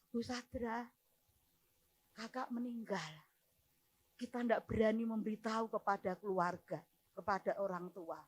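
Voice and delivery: retold grave news. Relative telling the pastor of a death, subdued. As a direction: relay the death quietly. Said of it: "dia bilang seperti ini".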